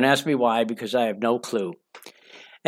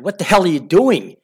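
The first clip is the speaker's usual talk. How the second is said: louder, higher outraged outburst; retold shout; 6 semitones higher, 6 dB louder than usual. Man to bedmate on waking in shock, shouted. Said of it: "and I shouted".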